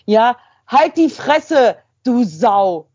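loud, slow, spat-out abuse; an angry stranger cursing out a dog walker; furious insult. Retold or imitated. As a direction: hurl the insult, raging. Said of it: "Ich so".

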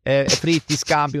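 lightly hammed fake Italian, slowing on andiamo; mock Italian accent. Comedian retelling his mock Italian act in a TV interview. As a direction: toss out Italian words like a caricature Italian guest. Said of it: "I love your, äh, I-, Italian accent".

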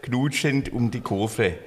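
put-on tongue twister in a light Swabian accent, slow; own Swabian accent. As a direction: recite it slowly with a touch of Swabian. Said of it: "weil ich's in meinem Akzent gesprochen habe". (Zungenbrecher langsam mit leichtem schwäbischem Akzent)

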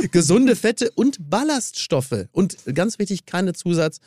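upbeat sponsor read. Acted. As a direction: sell it like an ad. Continues ad read.

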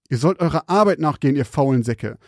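angry interruption. Acted. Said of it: "unterbrach Salvo ihn".

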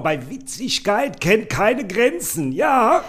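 very high, gushing mother voice; shrill-free but sky-high chatty mum showing off; proud mother on the phone. Acted. Podcaster reads the mother's lines bragging to Waltraud, in a very high put-on voice. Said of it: "Du bist Mutter".

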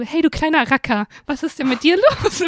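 playful cooing at a puppy; talking to a dog. Retold or imitated. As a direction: speak like you would to a little dog. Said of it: "so sprichst du ja mit Hunden".

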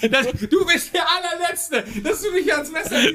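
very high, slow, laughing mock outrage. Real, not acted. To friend who blamed him, squealing laughing mock outrage. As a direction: squeal it through laughter, betrayed.

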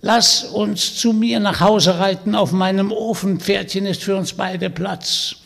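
put-on high, loud croaky old witch voice; croaking witch. Witch inviting Vanya home, croaking and sly. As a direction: play the sly old hag inviting him along.

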